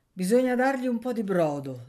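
a caring neighbour giving orders; kindly old aunt. Acted. Zia Tatana speaks to the sick. (zia premurosa, voce più alta e forte)

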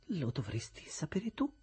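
slow, whispered retort; cold whisper. Acted. Estella whispers coldly to Havisham. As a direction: let it drop icily.

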